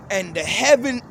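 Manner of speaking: emphatic verse reading with restarts; scripture reading. Acted. Preacher reading of the departing heaven, emphatic scripture reading. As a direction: declaim the verse, restarting as you go. Reads scripture aloud to listeners.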